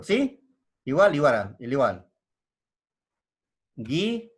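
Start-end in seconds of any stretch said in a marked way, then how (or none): 3.8-4.3 "Guitarra" broken apart, syllable by syllable; split into syllables. Shown as a demonstration. Teacher separating the word for students, "Guitarra" syllable by syllable. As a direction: separate "Guitarra" into spaced syllables, first one rising. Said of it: "Vamos a separarlo".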